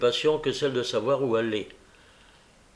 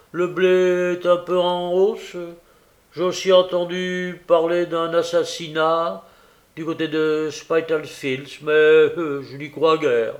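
courier chatting; 4 semitones higher, 5 dB louder than usual. A narrator's reading. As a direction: give out gossip unhurriedly. Courier gives the news.

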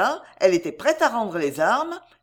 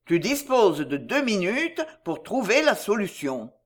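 distant voice. Acted. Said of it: "Et la voix se tut".

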